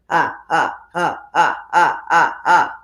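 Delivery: forward-placed ah, ah pulses; placed ah exercise. Shown as a demonstration. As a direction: demo of placing the vowel up front. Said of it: "try and place it here".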